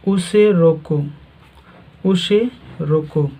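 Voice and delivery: "उसे रोको" set apart as its own phrase, pause after रोको. Shown as a demonstration. Teacher showing students where the comma falls, pause after रोको. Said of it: "comma लगा हुआ है".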